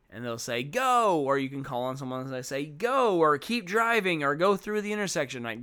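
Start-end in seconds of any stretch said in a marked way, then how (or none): 0.6-1.2 put-on high, loud child's shout of an answer; eager kid answer. Teacher imitates a pupil shouting the answer, high and loud. 2.7-5.4 put-on higher, louder child call-outs; eager kid answers. Teacher imitates pupils calling answers, high and loud.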